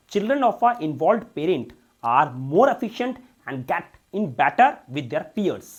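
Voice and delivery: slow, loud reading of the English passage; slow dictation read. Shown as a demonstration. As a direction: read it out word by word for the class. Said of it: "reads the passage aloud slowly".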